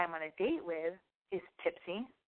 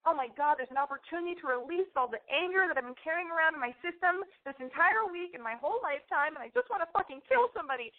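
mock eager rage; 9 semitones higher than usual. Voicing inner rage thoughts.

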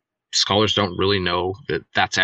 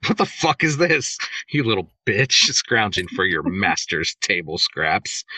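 scoffing. Acted. Loki belittling Frey's servant, mildly scoffing. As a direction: scoff lightly, with a laugh slipping in. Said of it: "Loki scoffs and says".

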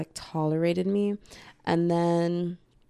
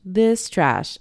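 flat dismissal; 2 semitones higher, 6 dB louder than usual. Retold or imitated. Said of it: "And I'm like".

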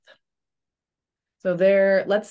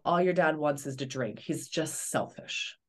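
bitter dismissal; 4 semitones lower, 5 dB quieter than usual. Retold or imitated. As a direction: dismiss the dad with quiet contempt. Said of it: "you aren't going to say".

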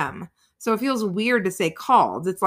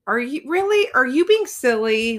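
put-on kids checking; 4 semitones higher than usual. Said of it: "they'll go".

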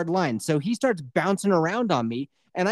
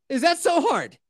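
mock exasperated; 9 semitones higher than usual. Repeat, higher put-on voice.

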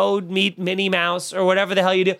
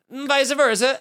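higher-pitched mock Italian accent; playful Italian accent; 4 semitones higher, slower than usual. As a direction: slip into a joking Italian lilt. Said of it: "I do an Italian accent".

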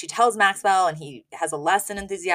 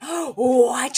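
a sharp, higher, louder "What?"; mock enraged gasp; 6 semitones higher, 4 dB louder than usual. Host retells Sylvia hearing the news, in mock outrage. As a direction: play the outraged mother. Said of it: "enraged and she's like".

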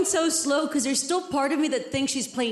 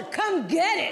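higher defiant challenge; defiant dare; 5 semitones higher, slower than usual. Retold or imitated. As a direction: throw the dare right back at her. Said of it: "I legit told her".

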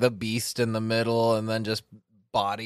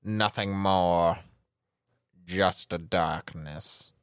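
gloomy weather forecaster. Pretend. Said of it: "the hoomy gloomy weather forecaster".

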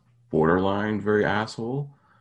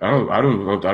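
laughing; 6 dB louder, much slower than usual. Real, not acted.

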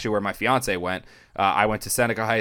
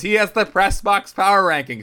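excited retold quote; 10 semitones higher, 7 dB louder than usual. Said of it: "He goes".

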